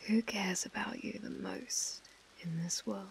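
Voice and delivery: possessive mistress, whispering and murmuring; whispered asmr role play. Acted. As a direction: coo and whisper to a captive. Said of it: "my A S M R roleplay".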